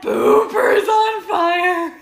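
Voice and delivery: sung through helpless laughter; cracking up, half singing; laughing. Real, not acted. Laughing fit over the cat.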